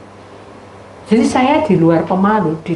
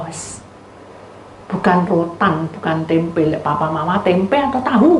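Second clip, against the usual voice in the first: ordinary talk, nothing marked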